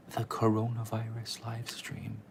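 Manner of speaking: slow hushed whisper. Real, not acted. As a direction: whisper the dreaded word. Reluctant mention, hushed.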